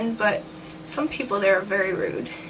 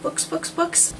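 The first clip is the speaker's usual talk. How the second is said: whispered reset; 7 semitones higher, slower than usual. Real, not acted. Trying to reset after flub.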